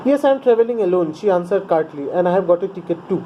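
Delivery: reading the story aloud slowly to the class; measured classroom read-aloud; a teacher reading a textbook passage to pupils; slow text reading. A narrator's reading. Teacher reads the English text.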